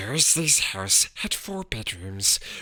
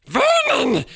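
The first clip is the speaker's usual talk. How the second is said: quivering voice; 8 dB louder than usual. A narrator's reading. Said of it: "in a quivering voice".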